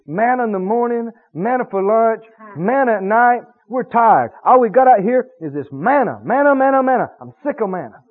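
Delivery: a light hammed-up whine about manna; mock Israelite griping. Israelites grumbling about manna, lightly mock-whined. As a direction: gripe like a fed-up camper, half-joking. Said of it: "one of the things that they'd been saying is".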